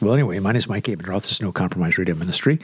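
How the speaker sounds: muffled, stuffy voice; underwater. Real, not acted. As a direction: talk through a blocked nose. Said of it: "I sound like I'm underwater".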